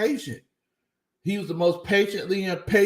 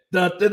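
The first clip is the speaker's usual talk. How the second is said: weak dun dun dun; 2 semitones higher, 3 dB louder than usual. Pretend. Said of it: "my dun, dun, dun sound kinda weak".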